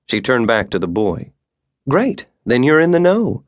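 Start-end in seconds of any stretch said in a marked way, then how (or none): none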